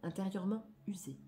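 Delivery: declamatory reading. Acted. Reads card text aloud.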